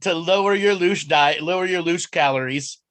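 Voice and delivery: playful infomercial patter; mock advert pitch. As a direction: sell it like a spoof diet commercial. Mock advert for diet loosh.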